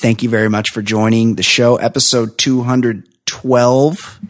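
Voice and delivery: drawn-out host sign-off, slow on the names; announcer. Acted. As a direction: announce the guests like a showman, stretching the words. Host's sign-off outro.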